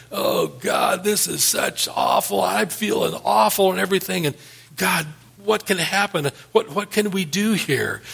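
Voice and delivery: hammed-up self-pitying moan to God; whiny Jeremiah. Discouraged prophet moaning to God, mock whiny. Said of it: "in this desert saying".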